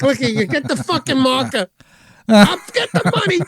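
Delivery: high, rising mobster rant; Pesci impression. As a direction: bark it like Joe Pesci losing at cards. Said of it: "He's like".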